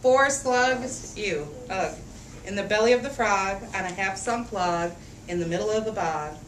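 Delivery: lively picture-book read-aloud; reading to children. A narrator's reading. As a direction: read it out for a room of little kids. Reads picture book to kids.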